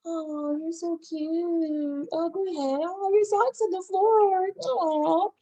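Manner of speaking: high, slow, sugary "you're so cute"; newlywed gushing over a sock on the floor, high and slow; doting newlywed. Retold or imitated. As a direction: coo at your new spouse like nothing bothers you. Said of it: "You're like".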